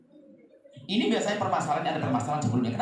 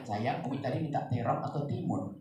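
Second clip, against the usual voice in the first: gentle asking; 3 semitones lower, 4 dB quieter than usual. Shown as a demonstration. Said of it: "Kalau saya ditanya".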